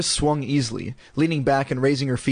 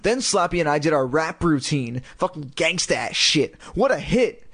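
gushing; 5 semitones higher than usual. Acted. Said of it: "Lindy gushed".

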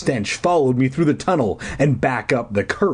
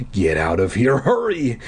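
pleading. Acted. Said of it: "Deirdre pleaded".

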